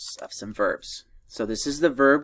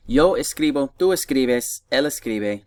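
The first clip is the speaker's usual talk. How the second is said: fresh retry; 2 semitones higher, 4 dB louder than usual. Shown as a demonstration. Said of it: "Try again".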